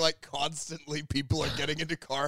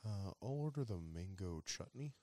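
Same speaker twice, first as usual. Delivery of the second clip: caveman voice; 6 semitones lower, 14 dB quieter than usual. Retold or imitated. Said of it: "the caveman goes".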